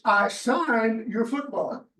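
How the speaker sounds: firmer, final repeat of the refusal. Retold or imitated. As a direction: drive the refusal home, word by word. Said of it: "A little more emphasis".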